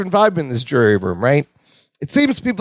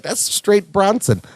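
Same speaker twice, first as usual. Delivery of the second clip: put-on Bronson, no accent; 4 semitones higher, slower than usual. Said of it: "it sounded like".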